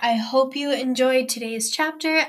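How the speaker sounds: cheerful sign-off. Real, not acted. Outro addressed to listeners.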